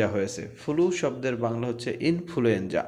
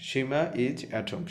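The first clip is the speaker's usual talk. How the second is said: slow reading; slower than usual. Shown as a demonstration. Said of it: "teacher reads sentence slowly".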